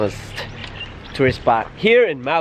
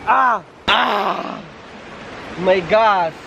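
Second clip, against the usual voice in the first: gasping from cold; 4 semitones higher, slower than usual. Real, not acted. Crossing cold river.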